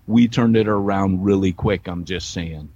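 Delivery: a touch of cowboy drawl; slight John Wayne drawl. Real, not acted. American wrapping up his story, slight Western drawl. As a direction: let a little Western drawl slip in. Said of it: "with a little John Wayne drawl".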